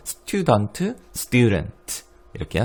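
student with the t like Korean ㄸ; tensed t in student. Shown as a demonstration. 학생들에게 쌍디귿 발음을 천천히 시범. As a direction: say student slowly with a hard ㄸ. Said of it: "T가 쌍디귿처럼".

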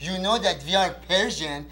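put-on joking threat in a Persian accent. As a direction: play a tough guy with a Persian accent. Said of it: "I gotta give him some Persian accent".

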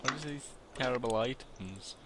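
slight accidental crack in the voice. Real, not acted. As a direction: voice cracking mid-question. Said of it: "Nice voice crack".

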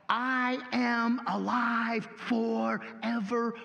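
slow, ringing proclamation; proclaiming Jesus. Acted. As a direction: declare it like a triumphant king. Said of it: "which is why he said".

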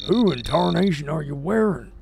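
lightly voiced country homeowner. Homeowner questioning oddly dressed visitor, folksy.

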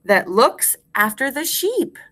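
full-voiced, rising at the end; measured rhyme recitation. Shown as a demonstration. Teacher gives class a line to repeat, measured and clear. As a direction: space it out for repeating.

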